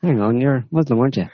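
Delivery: high, hammed-up London geezer voice; mock cockney jihadi. Mock jihadi bit continues.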